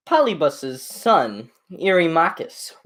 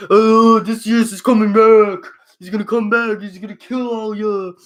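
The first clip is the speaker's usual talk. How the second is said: mock prophecy; 6 semitones higher, 6 dB louder than usual. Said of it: "And he's like".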